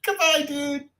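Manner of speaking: a high squeaky goodbye; mock doomed farewell. Host imitates a person falling in the video, mock doomed farewell. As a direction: voice someone about to fall.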